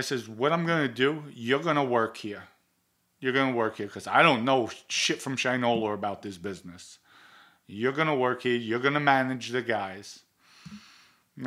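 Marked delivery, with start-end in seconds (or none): 0.3-10.2 angry orders. Retold or imitated. Confronting the partner who stole.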